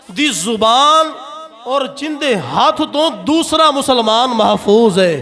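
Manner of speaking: slow, drawn-out sermon oratory; preaching. Real, not acted. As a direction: proclaim it to the congregation, stretching the key words. (जोशीली तकरीर, खिच्च के)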